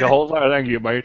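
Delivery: put-on lightly done deep Southern accent. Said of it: "In a deep Southern accent".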